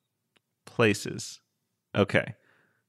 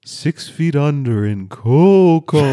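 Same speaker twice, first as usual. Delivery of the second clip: low haunting voice. Pretend. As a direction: sing it from beyond the grave. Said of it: "really bringing the chills".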